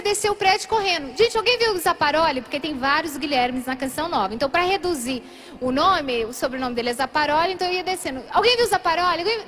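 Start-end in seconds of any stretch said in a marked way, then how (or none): 1.2-2.4 lightly acted frantic asking; mildly desperate. Running down the building asking neighbours, mildly desperate. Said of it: "comecei a ficar desesperada". 8.3-9.4 lightly acted frantic asking; mildly desperate. Descending the building in search of him, mildly desperate.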